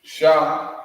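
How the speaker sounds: Shah drawn out slowly; slow syllable demo. Shown as a demonstration. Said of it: "This is the Shah".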